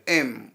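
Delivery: एम ending on a closed-lip m; pronounced with closing m. Shown as a demonstration. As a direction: say एम with the bindi as a half म. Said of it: "ऐसे उच्चारण होगा".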